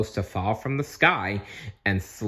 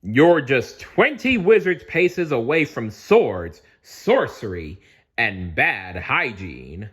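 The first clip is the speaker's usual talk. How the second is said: louder, higher announcer call, slowing at the end; booming announcer; 3 semitones higher, 5 dB louder than usual. Acted. Castle speakers welcome the crowd, booming announcer. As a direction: boom it out like a castle loudspeaker. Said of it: "A booming voice played over".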